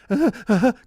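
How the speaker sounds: loud, high mock sobs; imitated crying. Driver imitates the frightened daughter in the back, mock crying. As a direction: imitate a scared kid's sobbing gasps. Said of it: "she starts crying while she, I can hear her".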